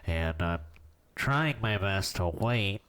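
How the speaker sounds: blocked nose voice; stuffy nose. Real, not acted. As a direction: speak as if your nose is blocked. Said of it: "I'm stuffy".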